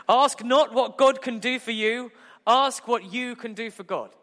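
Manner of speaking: lightly hammed-up JFK oratory; JFK impression. Preacher doing his JFK impression to the congregation. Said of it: "American president's kick".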